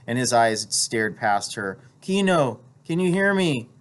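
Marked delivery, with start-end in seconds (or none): 2.0-3.7 high, urgent wife's voice; anxious calling. A narrator's reading. Wife trying to rouse her wounded husband, anxious calling. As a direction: call out to reach someone dazed.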